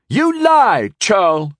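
high, loud, outraged accusation; near shriek. A narrator's reading. Young knight calls the lord a liar, nearly shrieking. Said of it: "Sir Cerberal nearly shrieked".

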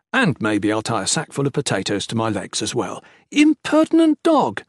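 playful scolding. Acted. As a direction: scold her in jest. Husband jesting during duel.

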